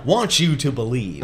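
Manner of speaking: lightly imitated talk-radio host; booming radio voice. Brother finishes his radio host impression, mock booming voice. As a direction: round it off like a radio pundit. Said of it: "in this booming, like, radio perfect voice".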